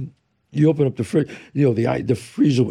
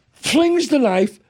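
slow dramatic telling; 10 semitones higher, much slower than usual. Real, not acted. Dramatic retelling.

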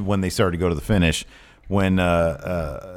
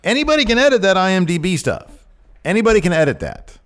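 worked-up insistence; 9 semitones higher, 4 dB louder than usual. Real, not acted. Arguing about IMDB.

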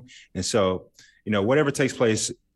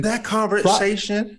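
loaded emphasis; 13 semitones higher, 4 dB louder, slower than usual. Real, not acted. Awkward scene.

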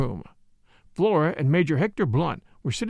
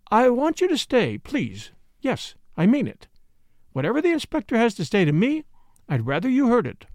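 put-on higher, insistent young woman's appeal; earnest young woman; 7 semitones higher than usual. A narrator's reading. Young woman asking Blunt to stay, earnest. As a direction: plead firmly in a raised pitch. Narrator voices Flora pleading.

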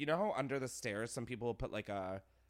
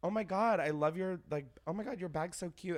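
mock fake gushing; 6 semitones higher, 4 dB louder than usual. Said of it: "I'll be like".

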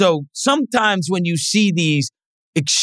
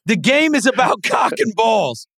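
mock proclamation; 5 semitones higher than usual. Real, not acted. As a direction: announce the quote as a grand motto.

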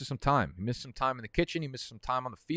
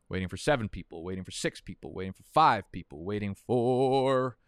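mock game-show countdown, punching the numbers; game host countdown; 6 dB louder than usual. Streamer counting down players still needed, mock game host. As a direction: drag out the last "four" like a host. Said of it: "feel like I'm a fucking game host".

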